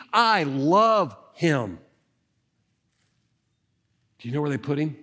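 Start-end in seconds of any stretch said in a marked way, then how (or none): 0.1-1.8 tender. Acted. Mary's devotion voiced.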